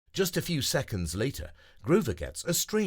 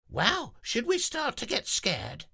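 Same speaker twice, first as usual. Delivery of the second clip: much higher, squeaky character voice; worried little friend; 14 semitones higher than usual. Acted. Nelly asking the group, high and worried. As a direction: ask it wide-eyed and small.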